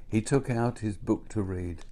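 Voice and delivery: usual speaking voice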